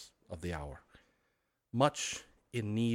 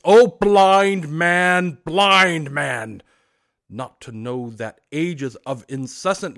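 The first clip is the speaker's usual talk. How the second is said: unearthly voice; 3 semitones higher, 9 dB louder than usual. Acted. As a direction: cry out like a lamenting spirit. Ghost laments.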